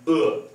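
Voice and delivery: e hoch ansetzen, scharf fallend; e kräftig abfallen lassen; fourth tone. Shown as a demonstration. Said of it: "I'll pronounce it again".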